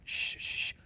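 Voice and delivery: unvoiced sneaking whisper; hushed stealth whisper. Real, not acted. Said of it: "I gotta be quiet".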